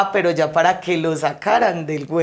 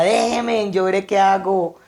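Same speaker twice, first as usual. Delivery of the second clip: 1 retold shout; 3 semitones higher than usual. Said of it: "les gritaba".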